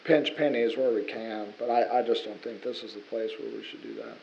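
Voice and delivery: raspy, worn-out hoarse voice; hoarse from yelling. Real, not acted. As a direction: voice shot from yelling all night. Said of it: "Sorry about my voice".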